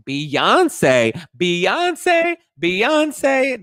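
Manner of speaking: high, loud drawn-out mock cry; mocking shout. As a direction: imitate a jeering diva outburst. Imitates New York's mocking outburst.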